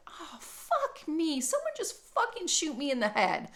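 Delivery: retelling her theatrical despair at the news; mock despair. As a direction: drag out the melodrama. Despair at being undesirable.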